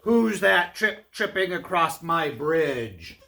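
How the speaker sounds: slow, loud troll challenge; big, slow booming demand. Acted. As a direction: draw it out as a menacing bridge troll. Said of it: "he demanded in a booming voice".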